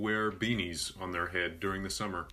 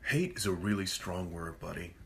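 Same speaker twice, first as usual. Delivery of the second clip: preachy scolding; 2 semitones lower, 4 dB quieter than usual. Retold or imitated. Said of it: "one of those people that goes".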